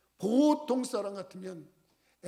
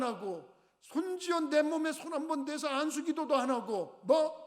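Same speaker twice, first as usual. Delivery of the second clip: higher, indignant ranting; furious outburst; 5 semitones higher, 3 dB quieter than usual. Acted. General fuming at the servant, higher furious rant. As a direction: rage at being slighted. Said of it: "갑자기 화가 났어".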